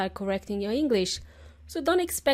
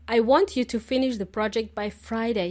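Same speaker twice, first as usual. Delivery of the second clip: bossy. Shown as a demonstration. A boss ordering a colleague, bossy. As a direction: stress on "want", a bossy falling order. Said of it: "It sounds very bossy".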